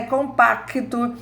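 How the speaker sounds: "Compacto" said slowly with the k sound clear; pronounced consonant. Shown as a demonstration. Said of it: "ó, o K, o K é o C". ("Compacto" com o k bem pronunciado)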